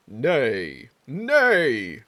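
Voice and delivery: two eager little unicorn cries; a tiny unicorn getting excited; creature whinny. Acted. Voicing the unicorn mascot.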